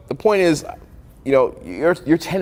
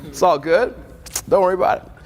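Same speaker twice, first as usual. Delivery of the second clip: mock eager host; 6 semitones higher than usual. Friend offering kombucha instead.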